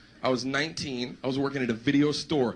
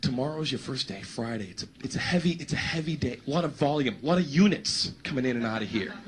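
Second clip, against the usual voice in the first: lower, softer, earnest instructions; serious boss; 4 semitones lower, 3 dB quieter than usual. Retold or imitated. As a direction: imitate a boss getting all serious. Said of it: "And he got all serious".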